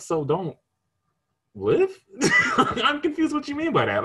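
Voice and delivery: very high, loud laughing disbelief; real incredulous laugh. Real, not acted.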